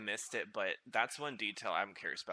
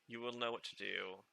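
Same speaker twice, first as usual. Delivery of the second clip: Luna quote; 2 semitones lower, 5 dB quieter than usual. Retold or imitated. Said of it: "what Luna said".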